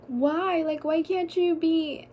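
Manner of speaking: put-on crying ex girlfriend begs; pleading through tears. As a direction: beg him while crying. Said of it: "I was crying".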